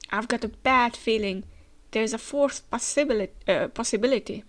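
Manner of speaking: speaking with a head cold; nasal, blocked-nose cold voice; stuffy cold voice. Real, not acted. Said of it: "as you can hear, I have a bit of a cold".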